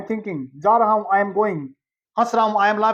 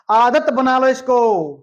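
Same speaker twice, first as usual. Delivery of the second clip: slower and firmer; emphatic slower repeat; 2 semitones higher, 4 dB louder than usual. Shown as a demonstration. Teacher firmly repeating the phrase to students. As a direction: press it home for the class. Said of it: "क्या बोला था?".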